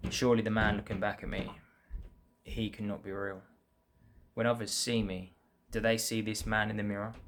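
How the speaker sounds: measured poem reading, line by line; earnest spoken poem with pauses between lines; poem recitation. Acted. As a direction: recite your own verse in evenly phrased lines. Reads second poem again.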